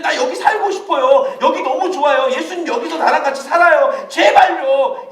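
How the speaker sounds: a lightly voiced Peter, begging with a laugh; pleading Peter. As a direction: Peter pleading with Jesus to stay, a mild plea. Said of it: "이렇게 말하고 있는 상황이니까". (베드로가 예수님께 살짝 애원하듯)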